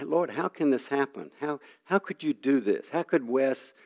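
a father pleading with God over his son's sin, retold; retold anguished prayer. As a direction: ask God why, half acted, voice lifted and pained. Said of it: "I kept crying out to God".

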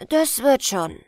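put-on a loud, eager boy's yes; mock-eager child; eager agreement. Boy Ola voiced in tale.

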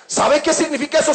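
ordinary delivery

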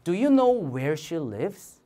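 very slow, every word drawn out; slow model sentence; slow choral reading. Shown as a demonstration. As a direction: read it slowly so the class can follow. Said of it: "이렇게".

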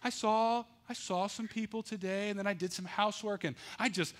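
sweet Delilah. Acted. Delilah voiced sweet-talking Samson.

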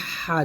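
হা squeezed from mid-throat; pressed হা. Shown as a demonstration. Teacher shows learners the heavier letter, pressed হা. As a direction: say হা with a tightened throat. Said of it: "চাপ দিয়ে".

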